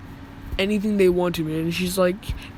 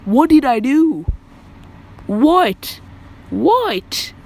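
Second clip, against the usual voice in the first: loud, high mock protest; indignant outburst; 6 semitones higher, 6 dB louder, much slower than usual. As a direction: call out the question louder and higher each time it is asked. Acted protest at being in trouble.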